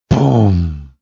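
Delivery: long falling boom; slow, resonating boom; imitated footstep boom. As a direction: make a heavy thud with the voice.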